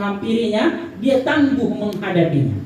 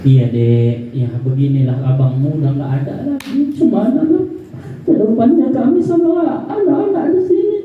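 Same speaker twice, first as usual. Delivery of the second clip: mock tearful reply. Grieving widow answers, voice breaking.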